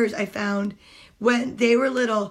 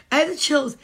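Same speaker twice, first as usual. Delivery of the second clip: thrilled; 2 semitones higher, 4 dB louder than usual. Real, not acted.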